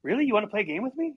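lightly voiced little boy, hopeful question; little brother surprised to be invited; eager little brother. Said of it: "And Dan's like".

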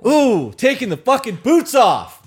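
high, loud, drawn-out cheer; real high shout of delight; excited whoop. Real, not acted. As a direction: whoop it out, stretching the words. Cheering the email's boots challenge.

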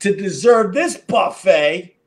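a mock shout of doggy delight, slow; hammed-up thrilled neighbourhood dogs; gleeful dogs. Dogs at the park thrilled by the buffet, mock shout. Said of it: "They're thinking".

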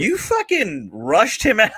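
mock scolding. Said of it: "Tom was like".

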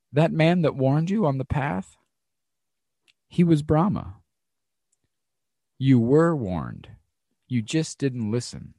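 a touch of a calm, unhurried monk; calm teaching. Retold or imitated. Monks calmly telling the student he was warned. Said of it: "they very calmly said".

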